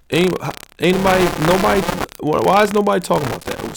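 can't believe nobody is saying it; indignant outburst. Real, not acted.

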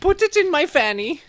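put-on high, thick Eastern European accent. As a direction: voice a creepy Eastern European girl. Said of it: "she kind of talked like this".

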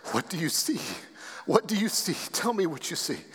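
hushed, urgent retold plea; softly voiced, moved quote; emotional deathbed question. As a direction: ask it tenderly while holding back emotion. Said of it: "the reason I'm emotional".

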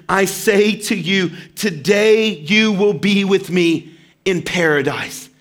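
slow, gentle, deliberate promise; Jesus gently promising the dying criminal paradise, slow and tender. Acted. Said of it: "when he says in Luke".

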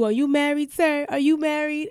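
a hint of a pushy flirt; flirty nosy lady. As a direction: lean in and pry playfully. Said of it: "and she was like".

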